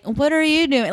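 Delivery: put-on squeaky copycat toddler; baby twin. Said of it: "little baby twin is like".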